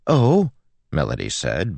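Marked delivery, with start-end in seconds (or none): 0.1-0.5 high, loud indignant outburst; voice rising. A narrator's reading. Girl objects as priest turns away, voice rising. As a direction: pitch it up in protest. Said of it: "voice rising".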